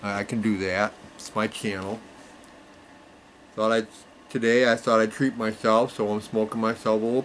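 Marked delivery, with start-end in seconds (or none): 0.0-2.0 talking around a pipe, no teeth; mumbling past a pipe stem; pipe in mouth. Real, not acted. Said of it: "I don't have my teeth in today".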